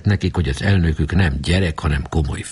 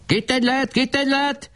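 shrill, very high screeching cry; screeching shout. Acted. Barabás jeering at the club, screeching very high. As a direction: screech it out like a gloating boy. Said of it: "rikácsoló hangon kiabált".

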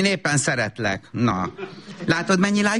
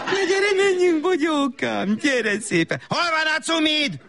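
put-on high sing-song coo to a toddler; high cooing baby talk; 10 semitones higher, slower than usual. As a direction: sweet-talk the little one, slow and high. Mother coos to toddler.

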